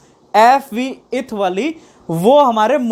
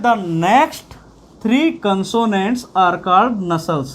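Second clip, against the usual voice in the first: reading from the text; much slower than usual. Shown as a demonstration. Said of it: "नसल्स कहता है".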